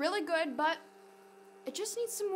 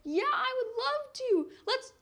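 pepper friend voice; 5 semitones higher than usual. Pretend. Lily voices other pepper.

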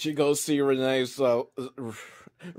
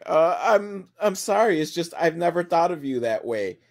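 hesitant, higher-pitched imitation of letting someone down; mock awkward apology; 3 semitones higher than usual. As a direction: stumble into a gentle rejection.

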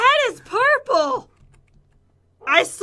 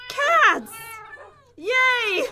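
excited; 2 semitones higher than usual. Real, not acted. Cat appears from lucky block.

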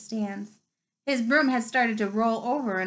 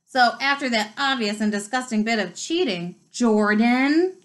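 stern, louder warning; growled; 5 dB louder than usual. Acted. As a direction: scold the commentator sharply. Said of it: "growled Professor McGonagall".

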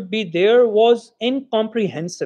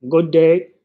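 mild loud hoarse greeting; 3 semitones lower, 3 dB louder than usual. Acted. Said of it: "a loud, hoarse voice".

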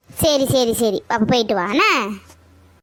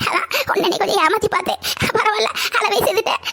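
higher voice breaking into laughter; laughing teasing; 5 semitones higher than usual. Acted. Grandmother admits fooling granddaughter, laughing as she teases. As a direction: gloat through a chuckle.

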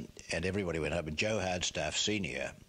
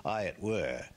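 a bit higher Yorkshire umpire voice, retried; Yorkshire accent, second try; 4 semitones higher than usual. Retold or imitated. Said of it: "I haven't got the accent right".

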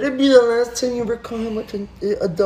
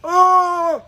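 speaking chinchilla; 7 semitones higher than usual. Acted. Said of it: "I speak chinchilla".

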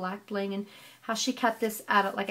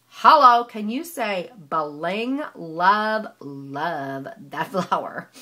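loud, slow gushing over a pretty flower; gushing excitement; 4 semitones lower, 9 dB louder, much slower than usual. Real, not acted. Crafter gushing to viewers over a flower, excited. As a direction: squeal with delight at the bling.

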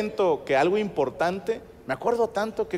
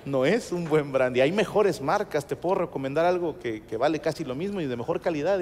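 kindly advising; 3 semitones lower than usual. Retold or imitated. Clerk advising customer on a better brandy, kindly. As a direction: gently talk a customer out of it. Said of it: "me dice amablemente".

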